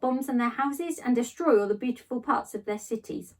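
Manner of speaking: put-on reading a children's book aloud, gently; lightly voiced storytelling; story narration. A narrator's reading. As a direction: tell it like a bedtime story to a class. Teacher reads novel aloud.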